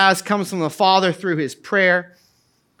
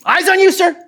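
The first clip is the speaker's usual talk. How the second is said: class shout back; 7 semitones higher than usual. Retold or imitated. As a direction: answer like a drilled class of kids. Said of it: "what the whole class would say".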